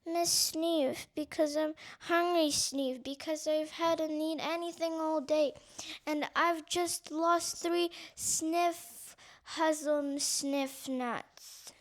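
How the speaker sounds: hungry mouse sniffles to the scarer; sniffling. Acted. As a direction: sniff between words like a crying child. Sobbing mouse explains her hunger.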